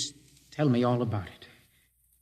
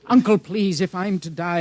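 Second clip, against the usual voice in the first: desperate plea; 5 semitones higher, 5 dB louder than usual. Acted. Begging uncle urgently.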